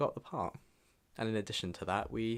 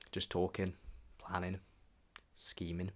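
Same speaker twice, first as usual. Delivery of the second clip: whisper; 6 dB quieter than usual. Real, not acted. Conspiratorial whisper after planning.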